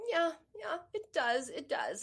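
lightly imitated child, high then sinking; small voice settling down from crying; calming after tears. Daughter agreeing with mom that it hurts, calming after tears. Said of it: "she sort of stopped crying".

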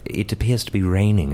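put-on very proper British accent. Guest demonstrates proper British talk, British accent. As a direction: observe politely in Received Pronunciation. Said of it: "there's the received pronunciation".

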